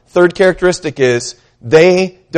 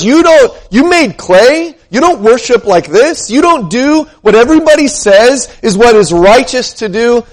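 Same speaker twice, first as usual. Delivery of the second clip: raised, accusing mock of his critics; critics' accusing voice; 5 semitones higher than usual. Preacher mocking critics who judge his worship, raised and accusing. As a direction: throw the critics' charge back at them.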